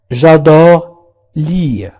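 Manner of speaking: very slow, drawn out; slow teacher demo; slow model phrase. Shown as a demonstration. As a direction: model it slowly for repeating. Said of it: "أحب القراءة".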